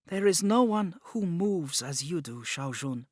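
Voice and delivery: put-on bright, lifted girlish voice full of praise; admiring. A narrator's reading. Zhang praising Jun's dance, admiring. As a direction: praise her friend's dancing with open admiration.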